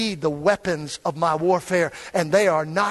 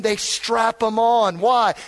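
usual speaking voice

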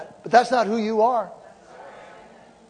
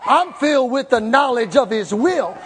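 jubilant declaration; 3 semitones higher than usual. Acted. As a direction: proclaim it like you just woke up victorious. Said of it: "get up in the morning and say".

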